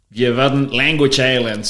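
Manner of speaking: German sentence with an American accent; strong American accent on language islands. Shown as a demonstration. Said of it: "I try my strongest, uh, American accent".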